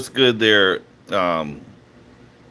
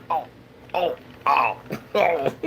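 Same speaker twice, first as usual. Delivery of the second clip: mock pain; 4 dB quieter than usual.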